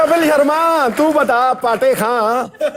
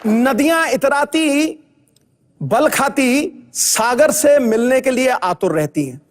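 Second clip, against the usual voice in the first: poetic recitation. Acted. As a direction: recite it like a grand poem, savouring each phrase. Sidhu recites a poetic line.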